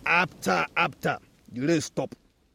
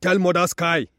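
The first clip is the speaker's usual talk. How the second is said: a bit louder, fed up and dismissive; fed-up tree; 4 dB louder than usual. Acted. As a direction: push them away, mildly cross. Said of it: "The tree said".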